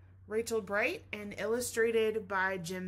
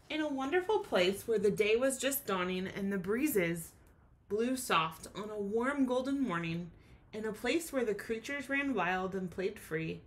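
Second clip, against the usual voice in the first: gentle storybook reading; reading to children. A narrator's reading. Teacher reading the class a rhyming story. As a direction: read it like a bedtime picture book. Teacher reads picture book aloud.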